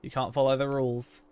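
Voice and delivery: polite scripted shop clerk scolding; lightly voiced politeness, firm but courteous; customer service voice. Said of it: "I put on my customer service voice".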